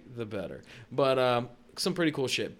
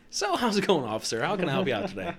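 lightly put-on polite customer voice; white customer voice; 4 semitones higher, faster than usual. Greeting a cop politely, white customer voice. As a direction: chirp it like an over-polite customer. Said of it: "straight up white customer voice".

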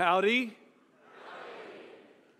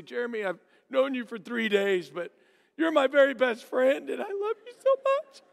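mock crying; 4 semitones higher than usual. Camper confessing love to new friend, mock tearful. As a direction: voice rises into a hammed-up sob.

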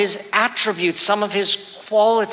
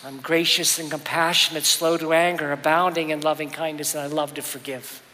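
softer and lower, fading away toward the end; tender voice of God; 3 semitones lower, 4 dB quieter than usual. Acted. Preacher voicing God's mercy to his listeners, tender and fading. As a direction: speak God's words of grace gently. God's gentle self-description.

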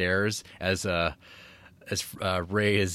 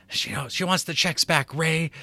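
acted woman; 7 semitones higher than usual. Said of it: "And then she comes in".

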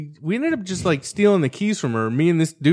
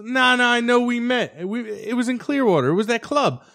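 insistent; 8 semitones higher than usual. Retold or imitated. Teen insisting on his pickup lie.

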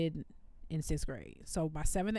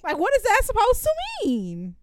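mock offense; 12 semitones higher, 7 dB louder than usual. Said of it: "I was like".

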